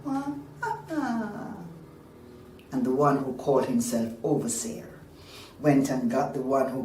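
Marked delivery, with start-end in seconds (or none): 0.0-1.5 soft, high mock baby wail; stylized wah-wah cry; baby's cry. A narrator's reading. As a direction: imitate an infant crying. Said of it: "the crying grew louder".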